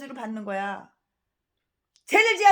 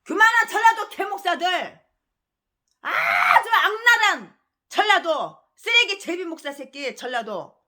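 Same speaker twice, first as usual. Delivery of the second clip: slow, loud shouting curse that breaks into a cry; a preacher's raging denunciation, slow and loud; furious shout; 3 semitones higher, 4 dB louder, slower than usual. Real, not acted. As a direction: spit out the insult, crying out in rage. Preacher rants at rival pastors.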